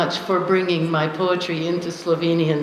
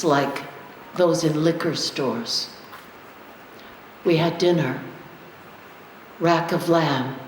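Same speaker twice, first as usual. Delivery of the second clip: measured poem recital with long, deliberate pauses; poetry reading. Acted. Poet reads to an audience a memory of El Salvador, measured recital. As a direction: read it as a prose poem, line by line, letting each image stand.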